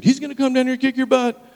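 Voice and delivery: loud, high-pitched mock threat; worked-up retold warning; acted angry threat. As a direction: imitate an irate woman threatening.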